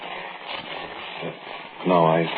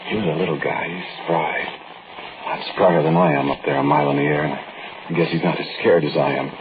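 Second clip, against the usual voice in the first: story narration. A narrator's reading.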